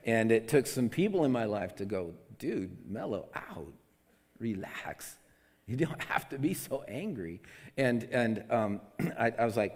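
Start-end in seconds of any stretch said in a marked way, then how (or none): 2.4-7.4 mellow calming advice. Retold or imitated. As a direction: talk a friend down, easing off. Friends telling him to calm down.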